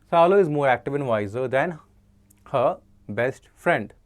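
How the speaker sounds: slow, careful reading of the fix; slow corrected sentence. Shown as a demonstration. Teacher reading the corrected sentence to students, slowly. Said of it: "इसको भी वाइजर होना चाहिए".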